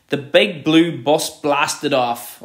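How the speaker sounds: emphatic, energetic alliteration; excited punchy reading. Shown as a demonstration. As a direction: punch the b sounds in big blue bus blasted. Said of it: "the excitement in that".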